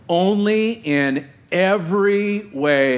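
slow, weighty Only in every way with every drawn out; slow and deliberate, every leaned on; stress on every. Shown as a demonstration. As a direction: lean hard on every. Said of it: "How much is every?".

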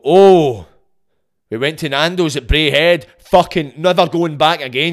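loud mock complaint, outraged; angry reviewer. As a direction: rant like a fuming customer. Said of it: "But you go".

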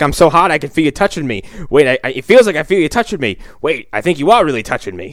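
hammed-up sleazy principal on the phone; mock phone sex moan. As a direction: act turned on, then startled. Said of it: "he's like".

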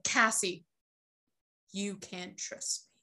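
deadpan and flat, mocking Jake's bad acting; a straight-faced monotone, imitating a bad actor. Friend mocks Jake's wooden warning in a flat monotone. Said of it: "so straight-faced and monotone".

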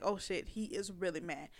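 low, soft mock dread; hushed inner alarm. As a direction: murmur it as a worried inner thought. Acts out one part of her.

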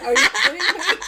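high, laughing disbelief; retold incredulity. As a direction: cry it out through laughter. Retold shock amid laughter.

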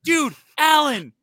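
loud, high shout of a friend's name; calling out. Retold or imitated. Calling out to his old roommate on the street. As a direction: yell across the sidewalk to an old friend. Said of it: "I said".

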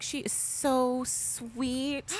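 very slow, sweet teacher voice; sugary praise. Retold or imitated. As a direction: stretch it out sweetly.

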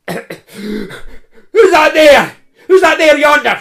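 put-on high, loud, slow old crone's call; a wary old woman shouting from her door; old woman crying out. Old woman calling at the strangers from her door, high and loud. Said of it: "she cried".

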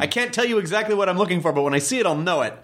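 high, quick excited rambling. Retold or imitated. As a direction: gush like you've just found it. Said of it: "where you go".

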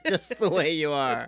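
put-on slow kids-show host; slowly, like a TV neighbor; Mister Rogers voice. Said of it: "Mister Rogers saying".

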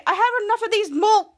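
imitated angry complaint; mock angry. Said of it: "he said, said angrily".

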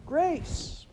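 high, loud scream of the name. A narrator's reading. Laura screaming for her lost sister on the hill. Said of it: "she screamed".

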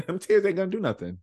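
a laughing jeer over crying; laughing mock taunt. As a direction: laugh while mocking the tears. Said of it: "He said".

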